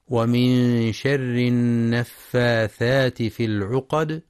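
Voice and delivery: slow recitation with held nasal n sounds; measured tajweed reading; Quran recitation. Shown as a demonstration. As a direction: recite slowly, drawing out the elongations. Teacher recites the verse under discussion.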